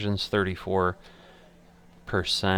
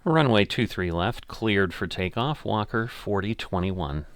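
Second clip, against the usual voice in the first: pilot radio readback. Acted.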